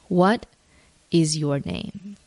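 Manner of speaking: slow, measured divine question; voice of God. Retold or imitated. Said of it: "an audible voice".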